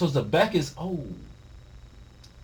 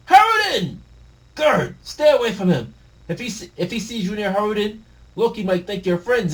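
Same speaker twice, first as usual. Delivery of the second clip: high, loud worried cry; urgent call; 9 semitones higher, 6 dB louder than usual. Acted. Friend warning Gerd away from Loki, alarmed call.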